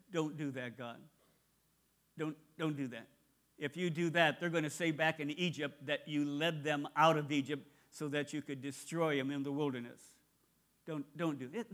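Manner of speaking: low, soft, understated pleading; hushed plea. Retold or imitated. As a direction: gently talk Him out of it, keeping your voice down. Moses gently pleading with God.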